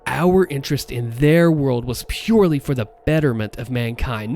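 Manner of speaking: measured weight on "Our", "purely", "betterment", dropping at "mankind"; emphatic key words. Acted. Voice actor imitating the character justifying the work, stressing "purely". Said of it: "Notice the emphasis on those words".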